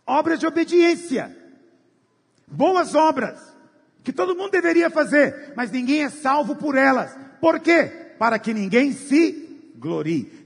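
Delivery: fiery pulpit proclamation; preaching at full force. Acted. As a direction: hammer the verse home to the church.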